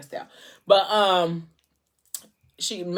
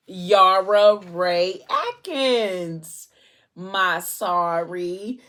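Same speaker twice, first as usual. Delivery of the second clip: drawn-out names; 4 dB louder, much slower than usual. Retold or imitated. Naming the babies.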